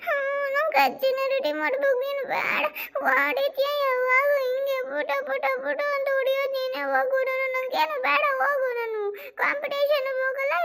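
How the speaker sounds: put-on high, tearful child's whine; whiny child crying. Boy whines to his mother that grandma must dress him, high and tearful. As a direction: sulk and whine like a scolded little boy. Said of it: "ಅಳಬೇಡ, ಸುಮ್ನೆ ಇರಪ್ಪ".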